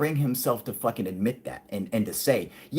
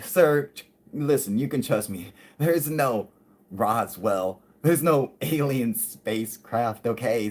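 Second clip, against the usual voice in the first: mocking tone. President dismissing the father with a mocking tone. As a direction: talk down to him with a sneer. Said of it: "he's all saying it in a mocking tone".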